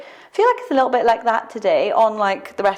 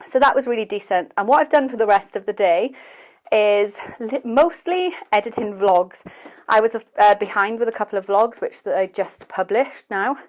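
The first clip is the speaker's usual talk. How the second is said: out of breath. Real, not acted. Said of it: "I'm so out of breath".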